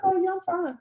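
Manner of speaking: high, light 'all good' voice; imitated reassurance. Acting out reassuring people who check on her, lightly. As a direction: wave it off in a high, easy voice.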